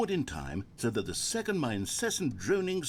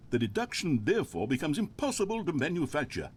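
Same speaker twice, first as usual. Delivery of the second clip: droning monologue; 3 dB louder than usual. Pretend. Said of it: "pretend that I've just begun an interminable monologue".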